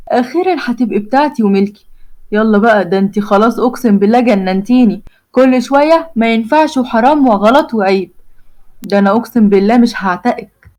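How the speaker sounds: flirt with a cheeky grin; Omar's voice. Acted. Omar flirts.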